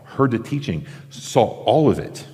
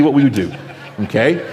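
laughing; 5 semitones higher, 5 dB louder than usual. Real, not acted. Joking about gossiping after church.

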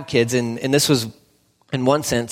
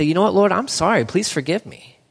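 humble prayer; 3 semitones higher than usual. Acted. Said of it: "stop and say".

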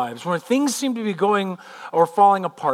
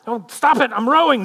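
raised pitch, annoyed retort; irritated brush-off; 5 semitones higher, 4 dB louder than usual. Acted. Judas to the man tapping him while rowing, irritated. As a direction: shake off the interruption crossly.

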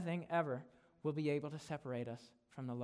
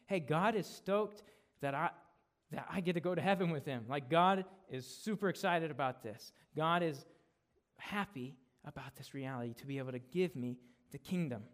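louder, eager rush of joy; excited believer; 4 dB louder than usual. Retold or imitated. Believer realizing God is stoked to give the kingdom, excited. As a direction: sound thrilled that God is happy.

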